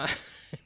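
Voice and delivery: scoffing laugh. Acted. Haman scoffs mid-rant.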